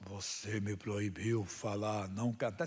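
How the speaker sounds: mocking, scoffing, very low, slow demon voice. Retelling a demon's reply after being forbidden english, imitating a mocking demon voice. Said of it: "Ele bem zombador, mudou a voz".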